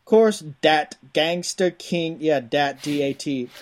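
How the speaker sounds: hammy Cajun game-box hype; punchy back-of-the-box read in a rough Cajun accent; put-on Cajun accent. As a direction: read it like a Cajun swamp-adventure trailer. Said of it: "There's some Cajun".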